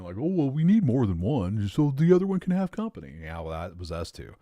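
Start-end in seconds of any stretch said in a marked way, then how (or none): 0.2-3.1 higher, fast, mocking the typical dog owner; sing-song parody of every dog owner's excuse. Mocking what all dog owners say about getting a second dog. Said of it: "the thing all fucking p-, dog owners end up doing".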